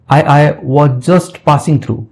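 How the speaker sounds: a slow, faltering "I, I"; stammering. Shown as a demonstration. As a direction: stumble over the start like a caught man. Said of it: "थोड़ा ऐसे लड़खड़ा के बोल रहा है". (लड़खड़ाते हुए धीरे-धीरे बोलना)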